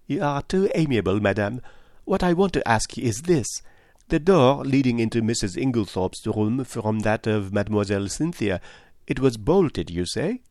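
lightly voiced, polite questioner; courteous detective Poirot. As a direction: put the question courteously and precisely.

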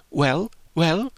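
put-on high, impatient girlish nudge; anxious prompting. Anxious girl waits on her friend's verdict, high and eager. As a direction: press her for an answer. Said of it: "Harriet stood anxiously watching".

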